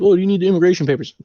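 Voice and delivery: high, quick flight attendant voice; imitated high-voiced attendant. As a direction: pitch it way up and say it briskly.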